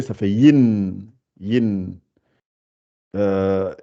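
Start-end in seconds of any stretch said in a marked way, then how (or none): 0.0-1.1 Yin stretched long, rising at the end; slow drawn-out Yin. Shown as a demonstration. Teacher modelling the doubled vowel, slow Yin. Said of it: "Y avec le I, mais doublé".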